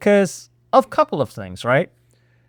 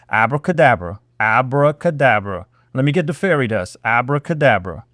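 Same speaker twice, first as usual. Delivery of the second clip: low mocking chant; mock magic incantation; 5 semitones lower than usual. Vlogger mocking a cover-up, low mock incantation. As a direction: wave it away like a magician.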